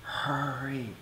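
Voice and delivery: imitated scream in slow motion. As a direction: stretch each word like slowed-down playback. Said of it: "she's screaming at the doctor".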